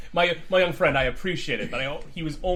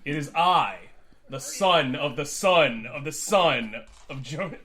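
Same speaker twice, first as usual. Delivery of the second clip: booming regal voice; slower than usual. Acted. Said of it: "this booming, commanding, regal voice".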